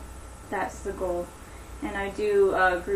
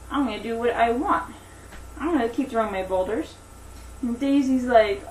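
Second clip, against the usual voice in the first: animated storytelling, higher than chat; story narration; 3 semitones higher, 4 dB louder than usual. Acted. Teacher telling Daisy and the giant to children, animated story narration.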